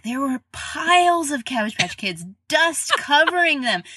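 amazed dad. Retold or imitated. Dad retelling dusty piles.

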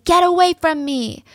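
retold scream. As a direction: imitate her yelling lightly. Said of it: "And she's screaming".

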